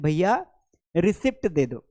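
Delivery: customer's "रिसिप्ट" with an audible p; mock shop request, short "i" and "pt" in "रिसिप्ट"; common mispronunciation. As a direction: ask the shopkeeper, saying रिसिप्ट as ri-SIPT. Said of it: "क्या बोलते हैं?".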